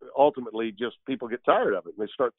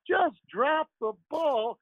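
Harry Caray impression; 10 semitones higher than usual. Doing Harry Caray calling a Cubs game, high and drawling. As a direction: call the game like a boozy old play-by-play man. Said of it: "one of my favorites is, uh, is Harry Caray".

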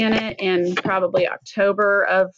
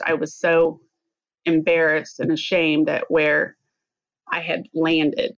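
choked up. Real, not acted. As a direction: voice tightening with emotion. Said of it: "I get kinda choked up talking about that".

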